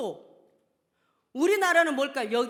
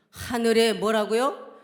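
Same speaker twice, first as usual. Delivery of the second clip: preaching call; 8 dB louder, much slower than usual. Acted. Preacher calling out scripture.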